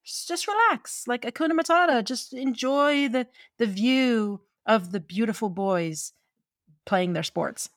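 a lightly voiced laid-back friend; Miriam voice. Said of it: "it's Miriam who says".

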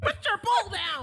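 high, laughing yell; mock shouted order. Friends joking about a pole, mock shouting.

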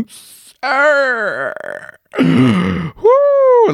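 high excited yelp and gasp; excited squeal. Real, not acted. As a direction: squeal with real delight at the photo. Reacting to his photos.

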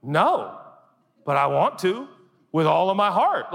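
high, rising yearning; longing. Acted. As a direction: want it with everything. Acted longing fan.

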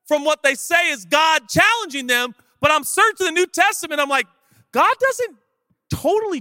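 high, forceful pulpit voice; impassioned preaching. Real, not acted. Preacher challenging his congregation, high and impassioned.

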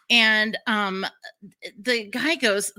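ordinary talk

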